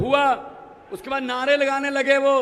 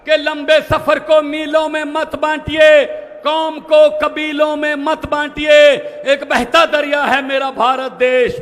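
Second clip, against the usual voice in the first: poetic recitation; 6 dB louder than usual. Shown as a demonstration. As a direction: declaim the couplet loudly. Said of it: "line बोलूंगा". (शायराना अंदाज़ में पढ़ना)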